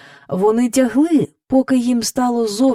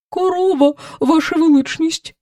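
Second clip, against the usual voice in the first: plainly stated, higher-pitched cow voice; simple; 8 semitones higher than usual. A narrator's reading. Red cow introducing herself to the king, simply. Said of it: "сказала вона просто".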